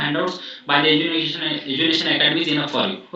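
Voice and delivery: each word spelled out very slowly; slow, emphatic advice. Shown as a demonstration. Teacher slowly stresses to students which handouts are enough. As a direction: lay it down slowly so students remember.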